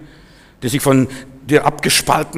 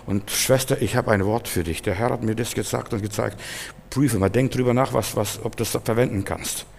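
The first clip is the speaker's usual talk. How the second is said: soft, lower, tactful offer; gentle counsel; 3 semitones lower, 8 dB quieter than usual. Acted. Believer passing a word to a sister, soft and gentle. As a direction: offer it quietly, without pushing.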